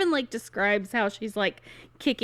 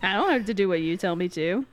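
defiant brat; 3 semitones lower, much faster than usual. Retold or imitated. Alia defying the Emperor, retold.

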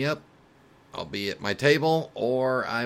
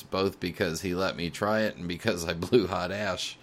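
laughing. Real, not acted. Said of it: "I'm sorry I'm laughing so much".

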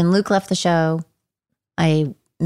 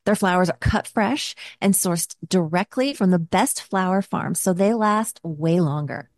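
ad read. Acted. Reads a sponsor ad.

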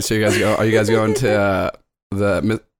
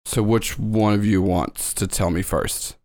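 teacher character; 3 semitones lower, 4 dB quieter, slower than usual. Acted. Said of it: "And she just goes".

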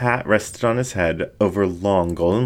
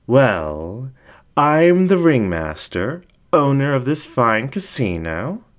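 high, showy self-introduction; grand ringmaster fox; 6 semitones higher than usual. Acted. Fox introduces himself to the dingo, high and grand. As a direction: announce yourself like a circus ringmaster.

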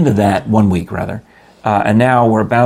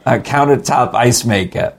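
raised, insistent mother offering a present; mother impression; 3 semitones higher than usual. Son mimics mother offering a birthday gift, mother impression. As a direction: imitate mom making a generous phone offer. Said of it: "do the impression while you're at it".

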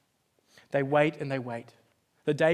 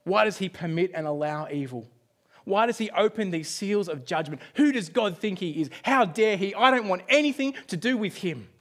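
crying out against God; 3 dB louder than usual. Retold or imitated. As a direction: start hushed, then rise into mock outrage. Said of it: "cry out and say".

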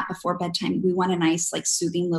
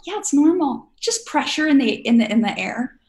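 flight attendant; 5 semitones higher, 5 dB louder than usual. Retold or imitated. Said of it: "she's like".

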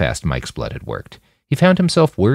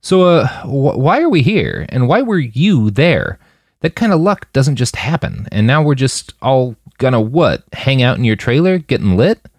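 higher, halting, carefully polite; trying hard to stay polite; strained politeness; 6 semitones higher, 3 dB louder than usual. A narrator's reading. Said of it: "polite as he could manage".

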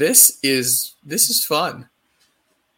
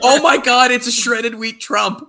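high laughing squeal; 11 semitones higher, 3 dB louder than usual. Real, not acted. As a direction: laugh through the words. Laughing at animation.

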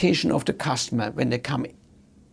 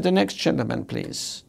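polite call; 7 dB quieter than usual. Retold or imitated. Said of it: "She could have said".

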